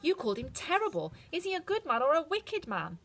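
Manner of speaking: put-on a girl needing to know; worried Dorothy. A narrator's reading. Dorothy asks the witch about Oz, anxious. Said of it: "Dorothy asked".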